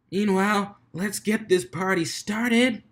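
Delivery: high, slow, drawn-out hype; party kickoff. Acted. DJ kicking off the race, excited and drawn out. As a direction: stretch it to launch the party.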